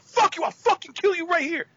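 retold snarl of a wrestler threatening a fan; angry threat. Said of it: "he goes".

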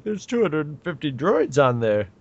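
flat robot monotone; flat computerized voice. Retold or imitated. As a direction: read it like a flat machine. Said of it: "the way he says it is just like".

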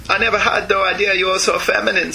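Mailing voice used for Snake. Acted. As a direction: read Snake's line in a Mailing voice. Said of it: "give Snake Mailing's voice".

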